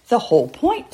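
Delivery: a touch of a father's impatience; impatient. Acted. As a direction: snap back in annoyance. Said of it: "said his father impatiently".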